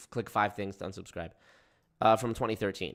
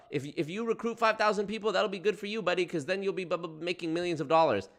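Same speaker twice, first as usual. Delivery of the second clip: mocking salesman; 6 semitones higher than usual. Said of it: "What did he say?".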